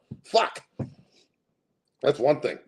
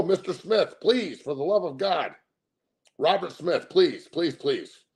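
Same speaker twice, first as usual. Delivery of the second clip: begging; 6 semitones higher, slower than usual. Acted. Begging the donor by name.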